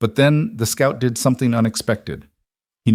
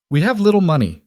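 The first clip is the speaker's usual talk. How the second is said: much higher woman's voice, urgent; Leia pleading; 10 semitones higher, 4 dB louder, faster than usual. Acted. Woman offering the outlaw her money, higher and pleading.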